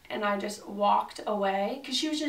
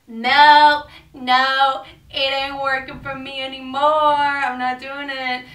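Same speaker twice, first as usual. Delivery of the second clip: loud, higher cries of no, no; shouting she quits at the counter; loud refusal; 4 semitones higher, 10 dB louder than usual. Retold or imitated. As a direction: belt out the refusal, fed up. Retold blow-up quitting at counter.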